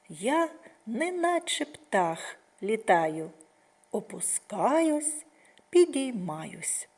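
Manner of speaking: slow sing-song rhyme for little ones; slowing nursery rhyme; children's rhyme. Acted. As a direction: recite it gently, swinging like a swing.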